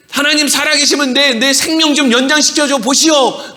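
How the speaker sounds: high, insistent acted plea; mock demanding shout. Believer bargaining with God for longer life, mock demand.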